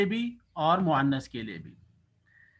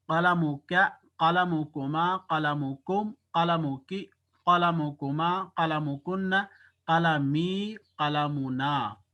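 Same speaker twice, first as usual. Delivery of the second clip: slow recitation; slower than usual. Shown as a demonstration. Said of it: "आप बोल सकते हैं".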